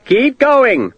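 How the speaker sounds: officer urging men forward; urging shout. A narrator's reading. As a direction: drive them on.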